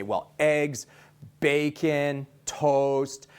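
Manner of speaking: shrugging, words stretched out; indifferent shrug. Shown as a demonstration. Trainer showing his indifference tone, shrugging and drawn out. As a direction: list it like it's no big deal. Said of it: "I'm kinda shrugging ... stretching the words out".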